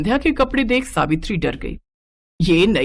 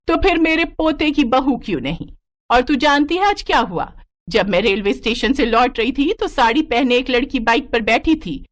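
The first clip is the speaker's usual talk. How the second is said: higher, lightly voiced old grandmother scolding; a hint of a spirited old woman, higher and firm; grandmother Ratna; 3 semitones higher than usual. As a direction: play the feisty old granny setting her daughter-in-law straight.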